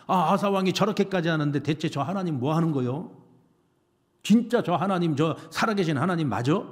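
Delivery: indignant villager grumbling in Jeolla dialect; doubting people's complaint with a Jeolla lilt; Jeolla accent. Acted. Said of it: "왜 갑자기 전라도 말이 나오죠".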